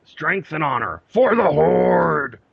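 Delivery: rallying cry. Acted. Rallying cry closing fan email.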